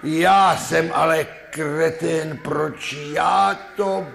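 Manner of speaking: put-on high, loud, slow whining drunk, half laughing; drunk lament. Second drunk regrets downing the brew, high slow whine.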